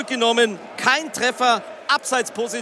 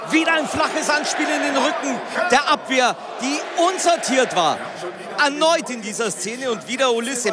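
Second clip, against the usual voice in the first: excited radio football commentary, raised; live play-by-play; 3 semitones higher than usual. Real, not acted. Live goal-rush play-by-play.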